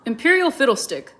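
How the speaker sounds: annoyed. A narrator's reading. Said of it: "said the king, rubbing his nose".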